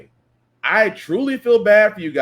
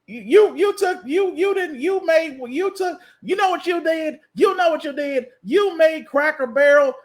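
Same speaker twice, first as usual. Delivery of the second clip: high, pitched-up indignant rant, stammering with outrage; mocking outraged fan; 7 semitones higher than usual. Comedian mocks Cracker Barrel fans upset about the sign, high outraged rant. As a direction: sputter like a diner whose restaurant changed. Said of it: "that's how they sound".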